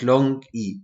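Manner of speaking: "E" said as a long ee; long E sound. Shown as a demonstration. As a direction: model "E" as the vowel in near. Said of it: "We pronounce this syllable E A".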